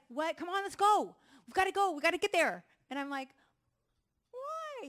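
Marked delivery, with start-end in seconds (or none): 0.1-2.6 loud, high, urgent hurry-up shouting; Rambo. Acted. Wife imitating her Rambo husband rushing her, loud and impatient. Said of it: "he's like Rambo". 4.3-4.9 very high, small-voiced protest; Elf. Wife as Elf answering her rushing husband, high and plaintive. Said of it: "I'm Elf, and he's like Rambo".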